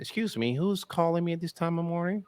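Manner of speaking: offended suburban man on the phone; white guy voice. Shown as a demonstration. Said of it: "I can do some voices".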